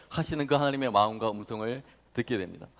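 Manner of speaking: ordinary talk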